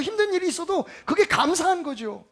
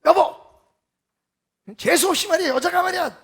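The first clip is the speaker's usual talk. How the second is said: gruff, dismissive grown-up, a touch louder on "여보"; scolding grown-up; 3 dB louder than usual. Retold or imitated. Grown-up scolding his crying wife, dismissive and rough. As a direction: brush off the crying like an annoyed husband. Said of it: "집에 어른들은 생각해".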